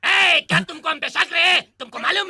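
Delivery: indignant. Acted. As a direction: call them out for doubting you. Indignant at being doubted.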